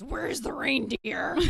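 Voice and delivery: high, loud, slow frantic demand; mom's wild-eyed cry for the reindeer; crazy voice. Retold or imitated. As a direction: play the flustered mom gone wild. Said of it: "really sort of crazy voice".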